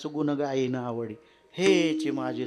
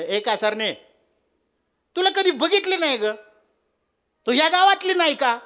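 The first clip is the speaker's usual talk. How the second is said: put-on old woman; 12 semitones higher, 9 dB louder than usual. Old woman calls out to seller.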